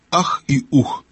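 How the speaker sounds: understated sorrowful hoot; mildly sad owl. A narrator's reading. Owl regrets the king has sailed, mildly sad. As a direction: sigh it out lightly as a sad owl. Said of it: "печально произнесла сова".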